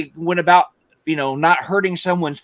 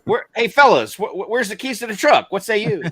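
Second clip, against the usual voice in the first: put-on old-timey fellow; 3 semitones higher than usual. Old-timey sayings parody.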